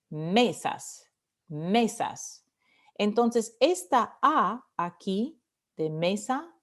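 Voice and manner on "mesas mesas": "mesas" with ME stressed, falling at the end. Shown as a demonstration. Teacher showing the tonic vowel, "mesas" stressed on ME. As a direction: lean on the first syllable of "mesas". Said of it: "La vocal tónica de mesas es E".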